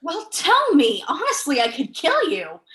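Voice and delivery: mock-murderous impatience; exasperated. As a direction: push him to spit it out. Exasperated demand for an answer.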